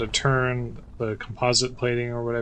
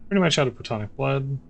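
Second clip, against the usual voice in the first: sarcastic. Real, not acted. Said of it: "I'm being incredibly sarcastic right now".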